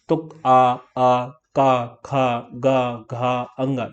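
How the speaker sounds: आ, का, खा, गा, घा, अंगा stretched very slowly; drawn-out throat sounds. Shown as a demonstration. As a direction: draw out आ and का from the throat. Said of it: "ये सब क्या है? गले से आ रहे हैं". (गले से धीरे-धीरे खींचकर उच्चारण)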